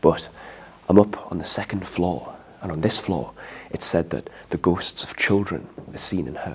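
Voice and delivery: soft, hushed, held-down voice. Telling ghost stories on the second floor while other guests sleep, keeping voice down. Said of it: "I'm having to keep my voice down now".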